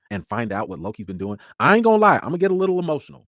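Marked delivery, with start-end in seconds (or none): 1.6-3.3 excited confession. Real, not acted.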